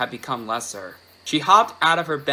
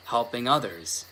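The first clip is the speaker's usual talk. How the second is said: plain reading voice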